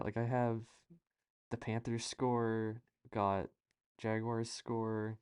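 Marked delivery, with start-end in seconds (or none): 1.5-5.2 slow, deliberate score readout; sports anchor voice. Shown as a demonstration. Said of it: "I'll kinda give you an idea".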